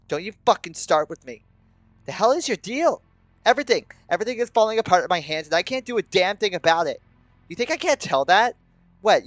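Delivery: high, loud, escalating fury; white-hot rage. A narrator's reading. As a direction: explode in a furious tirade. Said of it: "My anger turns to the white-hot burning rage".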